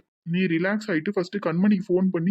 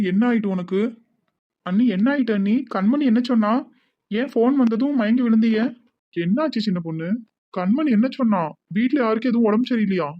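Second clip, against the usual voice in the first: louder, higher, worried pressing questions; anxious questioning; 4 semitones higher, 4 dB louder than usual. Acted. Husband anxiously pressing his tearful wife about the phone call. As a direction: fire questions out of fear for her.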